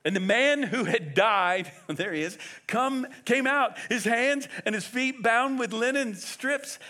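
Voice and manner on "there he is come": ordinary talk, nothing marked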